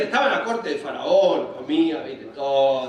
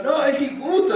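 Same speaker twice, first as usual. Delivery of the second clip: raised-pitch complaint; mock protest; 6 semitones higher, 3 dB louder than usual. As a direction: object in a high voice. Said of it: "dijo Moisés".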